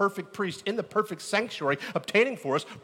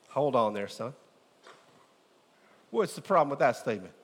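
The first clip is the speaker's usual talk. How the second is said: lightly voiced old country farmer; a hint of a drawling farmer dad; folksy farmer voice. Preacher to his church, lightly playing his farmer dad. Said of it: "I don't know why I'm doing that voice".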